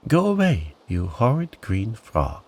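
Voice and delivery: a touch of indignant storybook protest; cross. Acted. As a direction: shoo off a pest, pitch dropping after the outburst. Upset girl sends frog away.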